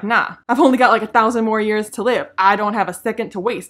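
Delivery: loud, snappy imitation of an impatient elf; mocking impatient Galadriel. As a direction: rattle it off as if time were short. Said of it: "she's like".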